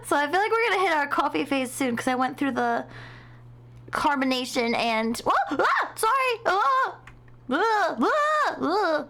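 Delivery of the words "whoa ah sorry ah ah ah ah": high gasping coughs after a swallow; choking. Real, not acted. Streamer choking on her drink mid-sentence, gasping and sputtering. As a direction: sputter like a drink went down wrong.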